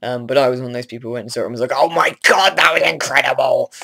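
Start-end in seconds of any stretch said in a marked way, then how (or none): 1.7-3.7 loud, high, put-on voice of an overexcited fan; "Oh my God" shrieked in a voice that isn't your own; gushing fan voice. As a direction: gush it like a starstruck superfan. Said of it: "Not in that voice. I don't speak like that. I don't know why I did that voice".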